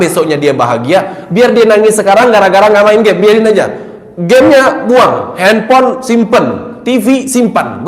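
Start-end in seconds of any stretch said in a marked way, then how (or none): 4.2-7.9 firm command. Retold or imitated. Firm instructions to father.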